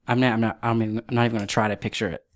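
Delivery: stumbling over repeated false starts; flustered, halting restarts; stuttering. Real, not acted. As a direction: trip over your words as you restart. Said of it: "I'm stuttering just thinking about it".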